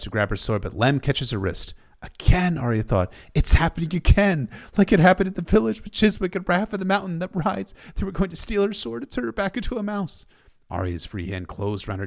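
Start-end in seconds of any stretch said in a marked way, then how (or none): 2.0-2.6 raised, urgent cry of dismay; a sudden jolt of alarm; alarmed thought. A narrator's reading. Arya realizing Lem has caught her, alarmed. 3.3-10.2 high, urgent rush of dread; panicked thought. A narrator's reading. Arya fearing her sword will be stolen, panicked.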